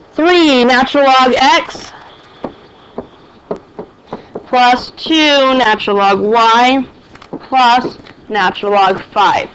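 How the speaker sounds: slow, clear dictation pace. Shown as a demonstration. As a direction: read it out slowly for notes. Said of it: "make sure you write it down".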